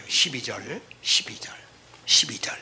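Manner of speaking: breathy repeated whisper; hushed aside. Real, not acted. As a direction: whisper the verse number to the room. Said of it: "whispered verse number".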